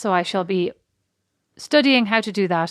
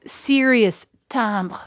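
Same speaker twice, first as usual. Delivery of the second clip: serious timbre; much slower than usual. Shown as a demonstration. Illustrates the serious timbre described.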